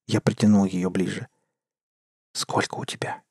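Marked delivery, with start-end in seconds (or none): 2.3-3.2 breathless whisper between kisses. Acted. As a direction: whisper it softly, lips close. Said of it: "прошептала она в перерывах между поцелуями".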